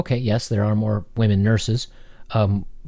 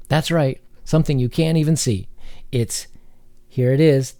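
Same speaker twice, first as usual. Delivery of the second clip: higher-pitched mock revelation; very sarcastic; 4 semitones higher than usual. Commentator ridiculing blame put on a bug, sarcastic. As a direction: play up the sarcasm in a raised pitch. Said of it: "I'm being very sarcastic".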